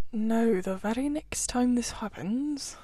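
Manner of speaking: suspicious Badger at the door; lightly voiced gruff character. A narrator's reading. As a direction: grumble like a wary householder. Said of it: "said a gruff, suspicious voice".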